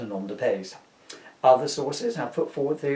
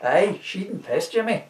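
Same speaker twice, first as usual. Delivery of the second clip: Scottish Jock; 6 semitones higher than usual. Acted. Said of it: "Jock two".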